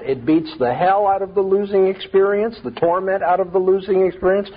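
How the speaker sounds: questioning lift at each "experience"; puzzled literal question. Acted. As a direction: query it as if taking it literally. Mock-questions the literal meaning.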